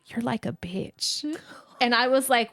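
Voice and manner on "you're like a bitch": soft, slow mock whisper; a hint of a sly little whisper; imitating a child's whisper. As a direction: hush it like a sleepy kid. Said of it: "she fucking whispers to me".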